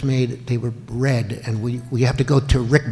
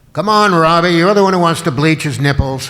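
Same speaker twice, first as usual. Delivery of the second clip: loud, nasty, mean, aggressive tone; 5 semitones higher, 8 dB louder than usual. Cast members doing their running bit to Robbie; mock aggressive, mean voice. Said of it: "in a kind of aggressive, mean way".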